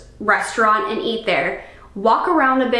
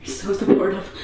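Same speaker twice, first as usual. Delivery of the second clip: sarcastic; 3 semitones lower, 6 dB quieter than usual. Retold or imitated. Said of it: "And I was like".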